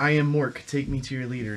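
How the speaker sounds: playful mock alien greeting; Mork. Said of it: the speaker insists he's not Mork but himself.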